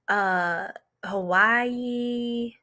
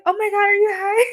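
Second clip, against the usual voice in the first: higher, louder, fast alarmed question; mock alarm; 10 semitones higher, 5 dB louder, faster than usual. To the stoned classmate in class, fast mock alarm. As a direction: rattle it off in shocked disbelief.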